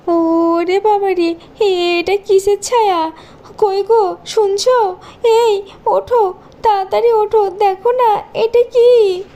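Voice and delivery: scared, rising panic; frightened. Acted. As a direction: wake him up in fear. Stepmother terrified by ghost.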